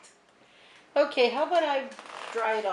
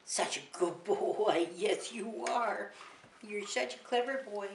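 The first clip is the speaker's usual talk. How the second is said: soft praise; 6 dB quieter than usual. Real, not acted. Praising the dog softly.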